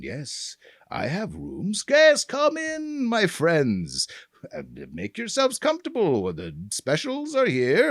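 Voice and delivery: a lightly voiced old innkeeper greeting guests. Shown as a demonstration. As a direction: quaver in, then a sudden high, slow welcome. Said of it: "And now I'm the old guy in the inn".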